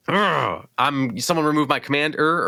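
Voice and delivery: lightly acted exasperation; salty. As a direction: imitate a sore loser's whine. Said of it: "I would be, like, so salty".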